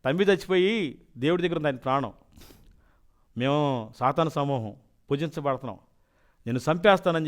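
retold demon's threat; demon speaking. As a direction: announce yourself as a fallen angel, loud. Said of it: "అన్నాడు".

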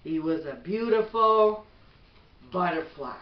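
gentle, even bedtime storybook read; reading to children. Acted. Mother reading a bedtime book to her son, gentle storybook voice.

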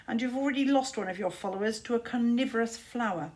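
a touch of scolding bird; weary raven voice. Acted. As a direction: sigh it out, mildly exasperated. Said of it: "said Caliburn".

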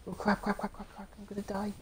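panicked babble. Real, not acted. Gamer panicking as the boss overruns him. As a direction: spill the words out in panic. Enemies overrun player in game.

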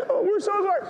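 very high tearful squeal; mock crying. Doctor and representative weep over the priest, mock crying. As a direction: imitate blubbering mourners, pitch way up. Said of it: "they started to cry when they saw me crying".

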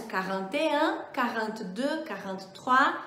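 "quarante et un", "quarante-deux" said in French; continue counting the forties; French forties demo. Shown as a demonstration. Teacher models the forties in French. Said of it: "E o mesmo processo".

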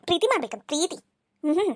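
mock her words quietly to yourself; sneering aside. Stepmother mocks girl aside.

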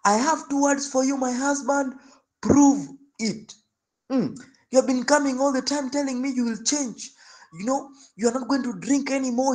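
high, indignant demand; scolding wife. Retold or imitated. Wife scolding her drunk husband, high and indignant. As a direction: throw it back at him.

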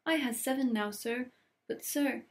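high, delighted elf voice. Acted. Elf thrilled by the old socks, delighted high voice. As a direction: gush happily like a house-elf.

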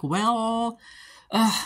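high, drawn-out knowing well; Aurora's voice. Retold or imitated. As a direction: lift the voice for a sly opener. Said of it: "And Aurora's like".

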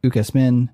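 ukesmin stressed on MIN; final-syllable stress. Shown as a demonstration. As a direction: put the accent on the end of ukesmin. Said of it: "have the accent on the ultima".

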